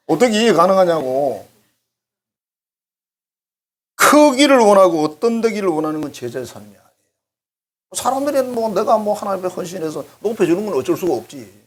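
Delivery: ordinary talk, nothing marked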